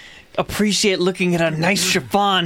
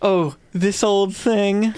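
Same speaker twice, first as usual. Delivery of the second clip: fake modesty; slower than usual. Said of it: "fake modesty".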